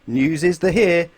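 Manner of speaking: slow, loud announcer read; newsreader. A narrator's reading. Television newsreader opening the news, slow and loud. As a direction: announce it grandly. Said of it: "said the television newsreader".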